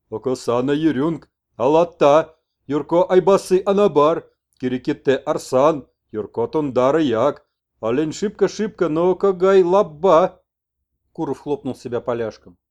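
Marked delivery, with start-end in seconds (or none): 0.1-10.4 louder, slow broken speech; shaman messenger. Acted. Messenger explains his plan to the old man, loud and slow. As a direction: explain it insistently.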